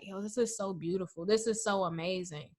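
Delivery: softly voiced, mildly teary wonder; a touch of crying in the voice; teary awe. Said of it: "like, crying".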